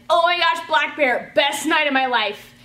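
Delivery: high, loud fangirl squeal; freaking out. Retold or imitated. Friend retelling the concert, squealing with excitement. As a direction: gush it like the best night ever. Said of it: "freaking out".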